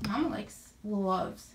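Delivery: breathless, short of air; out of breath. Real, not acted. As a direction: talk between quick breaths. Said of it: "sorry, I always sound out of breath".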